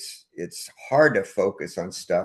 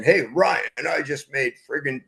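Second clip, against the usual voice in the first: pompous bragging; 4 semitones higher than usual. Retold or imitated. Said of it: "you sound like a pompous ass saying".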